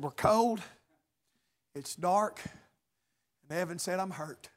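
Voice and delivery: low, very soft retold answers; subdued, weak reply. Preacher retelling the lost boys' answers, subdued and soft.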